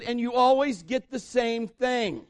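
high, slow retort; drawn-out parental comeback; exasperated parent. Retold or imitated. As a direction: throw it back in mock frustration. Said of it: "And I said".

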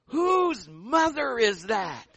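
loud, slow, drawn-out question; imitated teammate. Teammate in the huddle asking about the cheering mom, loud drawn-out question. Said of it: "the guy goes".

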